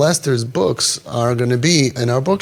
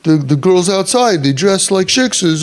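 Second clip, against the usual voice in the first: indignant parent; 4 semitones higher than usual. Retold or imitated. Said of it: "People will say that".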